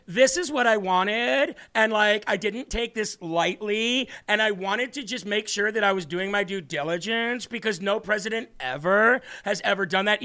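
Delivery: mock Valley Girl uptalk. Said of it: "like a Valley Girl with ending in a que-, like, a question".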